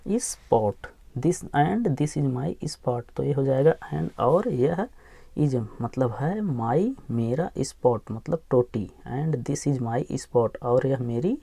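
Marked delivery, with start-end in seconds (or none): 1.2-3.0 very slow, each word of This and this is my spot drawn out; slow reading model. Shown as a demonstration. Teacher reading the line slowly to students. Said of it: "teacher models the sentence slowly". 9.1-10.6 very slow, each word of This and this is my spot drawn out; slow reading model. Shown as a demonstration. Teacher reading the line slowly to students. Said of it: "teacher models the sentence slowly".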